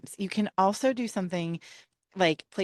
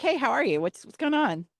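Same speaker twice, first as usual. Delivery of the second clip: higher, breezy phone greeting to a friend; upbeat and easy, like calling a pal; casual friendly hello; 7 semitones higher than usual. Pretend. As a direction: greet an old buddy on the phone. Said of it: "you just call up your friend and you're like".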